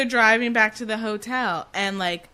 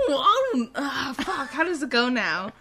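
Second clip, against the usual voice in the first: Pain and Panic voices; 3 semitones higher than usual. Retold or imitated. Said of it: "doing Pain and Panic".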